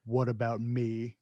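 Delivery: slow, low mumbled Stallone; Stallone impression. Retelling the movie, mumbling it slowly like Stallone. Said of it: "Stallone goes".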